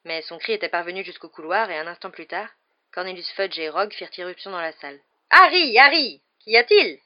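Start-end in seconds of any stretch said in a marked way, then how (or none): 5.3-7.0 high, loud, alarmed calling; worried official rushing in; inquiet. A narrator's reading. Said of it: "dit Fudge inquiet". (inquiet, affolé)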